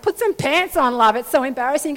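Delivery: embarrassed wife. Retold or imitated. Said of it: "his wife was so embarrassed".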